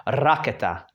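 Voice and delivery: raketa with a rolled R; trilled Czech R. Shown as a demonstration. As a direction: roll the R at the start of raketa. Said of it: "dragging out, I'm pulling that R".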